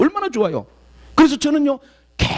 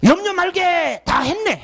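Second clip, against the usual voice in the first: uncle's hearty answer; 11 semitones higher, much slower than usual. Retold or imitated. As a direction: brush it off with a booming no-worries. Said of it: "물어보니까".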